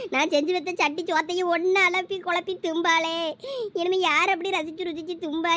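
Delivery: mother-in-law wailing over dead daughter-in-law, overacted mourning; theatrical wailing lament. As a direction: ham up a mother-in-law's grief wail. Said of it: "அந்த கிளவி கொடுக்க பெர்ஃபார்மன்ஸ்ல".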